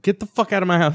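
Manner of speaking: angry. Retold or imitated. Teen throws the girl out of his house, retold anger. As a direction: order her out, mildly heated. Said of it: "I was angry".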